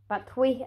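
battery said as "bat-twee"; jokey mispronunciation. Shown as a demonstration. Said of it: "if I pronounce it as battery".

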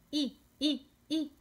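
"I" said as a short Spanish ee; "I" in brief, evenly spaced bits; isolated vowel sound. Shown as a demonstration. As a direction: repeat "I" as separate short vowels. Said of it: "¿Cómo suena la I".

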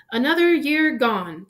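unhurried, lightly voiced jolly address; cheerful. A narrator's reading. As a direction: open the speech with mild good cheer. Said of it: "Dumbledore said cheerfully".

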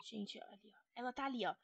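hushed whisper so she won't hear; unvoiced spy whisper. Real, not acted. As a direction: breathe it out, hiding on the stairs. Hiding, spying on the girl.

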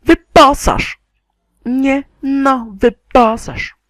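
loud, high protest; exasperated shout. Real, not acted. Gamer shouting at the game to equip an item, exasperated high yell.

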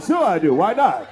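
low, loud mock-casual reply; imitating casual admission. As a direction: toss it out low, as if obvious. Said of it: "The way he said it".

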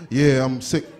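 hoarse low sick act; fake sick voice. Shown as a demonstration. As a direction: croak it like you're sick. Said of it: "rehearse your whole sick voice".

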